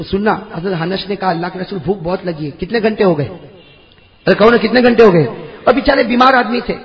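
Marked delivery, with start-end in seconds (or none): 1.3-2.5 weak plea. Acted. Hungry companion pleading weakly.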